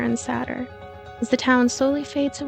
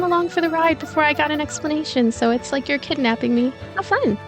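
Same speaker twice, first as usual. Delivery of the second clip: put-on slightly playful girl, pitched higher; lightly voiced cheerful kidnapped girl; 5 semitones higher than usual. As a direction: lightly play a carefree captive, amused.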